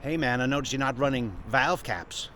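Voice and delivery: softly put-on American voice; hammy American accent, kept quiet; bad American accent. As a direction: attempt a laid-back American accent, badly. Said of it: "start doing an American accent".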